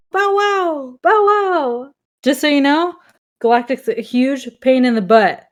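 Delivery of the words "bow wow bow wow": 1 mock barking. Playing the dog.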